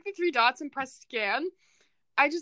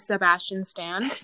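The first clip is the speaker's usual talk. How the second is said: slow, deliberate name reveal; odd delivery; 3 semitones lower, slower than usual. Real, not acted. Girl revealing a celebrity crush, slow and deliberate. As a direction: drag the name out knowingly. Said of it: "Why did you say it like that?".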